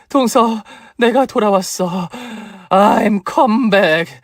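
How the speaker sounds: slow, high triumphant declaration; hammed-up comeback line; dramatic comeback. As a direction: announce your return grandly. Revived patient announces return.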